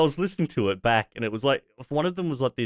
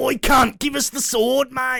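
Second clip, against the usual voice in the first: put-on Australian voice cracking, higher and louder; 14 semitones higher, 4 dB louder than usual. Joking about an out-of-place character in a game: Crocodile Dundee voice cracking. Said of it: "Crocodile Dundee over here, voice cracking".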